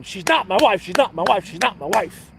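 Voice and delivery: loud yelled chant, stress on not; screaming punchline. Retold or imitated. Husband screaming at himself in the mirror, loud yell. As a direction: shout it at the mirror.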